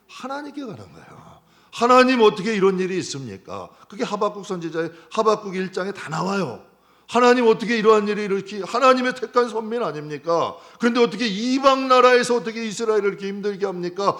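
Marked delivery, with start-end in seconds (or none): 1.7-3.7 loud, high protesting cry to God; complaining to God. Retold or imitated. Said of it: "하나님께 가서 원망하는 거예요". 7.1-14.1 loud, high protesting cry to God; complaining to God. Retold or imitated. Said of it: "하나님께 가서 원망하는 거예요".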